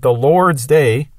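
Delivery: "Lord's" drawn out slowly with weight; slow right down and lean on "Lord's"; "the Lord's day" said very slowly, weight on "Lord's"; stress on Lord's. Shown as a demonstration. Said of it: "he's trying to emphasize the word lords".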